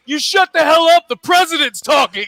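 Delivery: loud scolding shout at a heckler; audience yelling. Retold or imitated. Audience yelling at the debate heckler, loud. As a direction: yell them down for the president.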